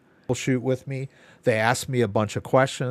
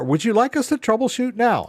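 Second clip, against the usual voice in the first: mock automated bot voice, pitched up; imitating the phone bot; 10 semitones higher than usual. Caller mocks the ISP phone bot, in a lightly pitched-up robot voice. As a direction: parrot the phone bot's prompt. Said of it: "I got their bot on the phone".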